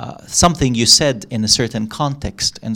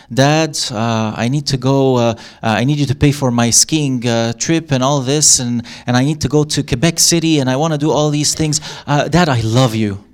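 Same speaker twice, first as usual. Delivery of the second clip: wheedling daughter; 3 dB louder than usual. Retold or imitated. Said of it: "my daughter comes to me and says".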